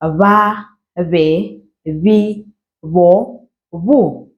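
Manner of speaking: Va, ve, vi, vo, vu with a buzzed lip sound; buzzing b demo. Shown as a demonstration. Teacher showing Ndebele b to learners, buzzing. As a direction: lips nearly touching, buzz each syllable. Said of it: "this is the sound that comes out".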